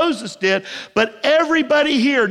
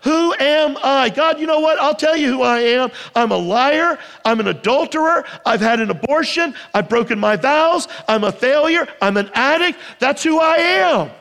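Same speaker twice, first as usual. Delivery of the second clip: mock shout to God. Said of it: "it's as though you're shouting to God".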